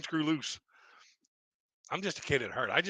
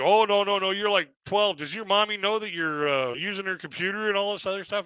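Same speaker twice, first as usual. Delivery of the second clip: higher, sneering taunt; a mocking online troll belittling the kid; mocking insult; 5 semitones higher than usual. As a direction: talk down to him like a child. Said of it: "he starts trying to insult me".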